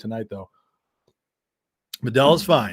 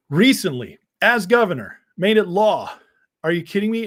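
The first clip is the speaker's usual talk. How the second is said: pressing, raised voice; tough questioner; 4 dB louder than usual. Retold or imitated. Interviewer grilling the candidate, loud and pressing. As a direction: push back hard, louder. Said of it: "he says".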